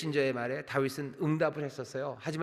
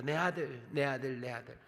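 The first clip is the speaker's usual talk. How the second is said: softer, sinking lament; a touch of a father's grief; mild grieving; 3 semitones lower, 6 dB quieter than usual. Acted. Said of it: "비통에 차서". (비통함이 살짝 묻어나는 부드러운 말투)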